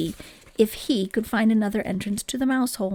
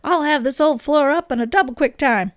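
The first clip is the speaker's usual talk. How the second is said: eager; 4 semitones higher, 5 dB louder than usual. Acted. George eager to rip floor.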